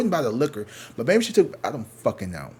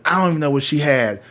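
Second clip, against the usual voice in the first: louder mock objection; retold angry protest; 3 semitones higher, 7 dB louder than usual. Clerk taking the beer from the boyfriend's hand, mock angry protest. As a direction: imitate a clerk's indignant refusal.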